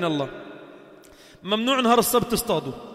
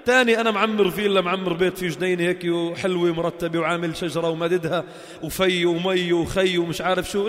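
ordinary talk

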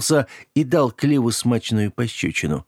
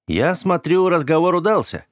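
amused; 8 semitones higher than usual. A narrator's reading. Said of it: "развеселился Оливер".

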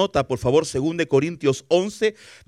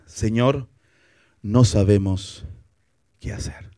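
hushed helpless prayer; 8 semitones lower, slower than usual. Acted. Preacher voicing a helpless prayer.

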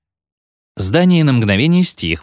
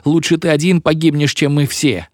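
pleading pupils; 6 semitones higher than usual. A narrator's reading. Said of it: "молили его ученики".

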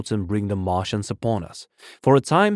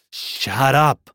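urgent, raised order to be silent; terrified command; 4 semitones higher, 4 dB louder than usual. A narrator's reading. Narrator fears the Martians will hear, alarmed command. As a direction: silence him in alarm, voice pitched up. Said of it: "in a terror lest the Martians should hear us".

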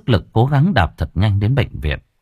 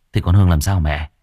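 pressing question; 4 semitones lower than usual. Acted. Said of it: "Tôi hỏi dồn".

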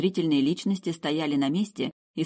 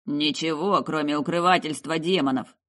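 grudging officer's retort; lightly grumbled objection; grumbling commander. Acted. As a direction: grumble it in reply. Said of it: "проворчал командир взвода".

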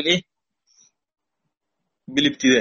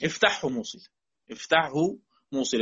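quiet recited rule; 8 dB quieter than usual. Shown as a demonstration. Teacher quietly reciting the poem's rule to the class. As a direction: softly recite افتحه موصل under the breath. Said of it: "طيب، وصلت،".

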